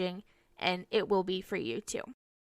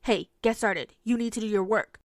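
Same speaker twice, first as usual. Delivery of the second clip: accusing. Retold or imitated. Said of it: "It's not accusing the student of".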